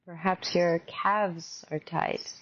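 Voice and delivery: measured meditation guide with long pauses; guided meditation. Real, not acted. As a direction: gently guide them into open awareness.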